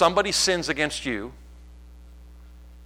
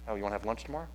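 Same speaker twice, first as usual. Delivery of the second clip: soft, lower, overly sweet invite; mock friendly invitation; 5 semitones lower, 10 dB quieter, much faster than usual. Shown as a demonstration. Pastor acting out inviting Noah to lunch, lightly sugary. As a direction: lightly put on a too-nice invite.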